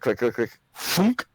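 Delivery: mouthed mechanical sound effect; imitated machinery noise. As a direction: mimic machinery clicks ending in a loud thunk. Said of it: "the machinery sound and giggle you heard".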